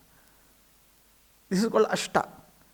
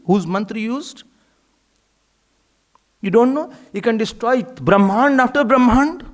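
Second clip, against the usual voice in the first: angry scolding. Retold or imitated. Parvati scolding Parashuram for hurting her son, rising anger. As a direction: scold him harder and harder, voice climbing. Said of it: "This is how she said in Puran".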